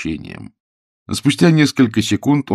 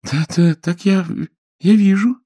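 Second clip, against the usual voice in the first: put-on high, nervous girlish voice; young woman caught off guard, nervous; Billy, flustered; 11 semitones higher than usual. A narrator's reading. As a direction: stammer it out high and anxious. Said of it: "ответила Билли".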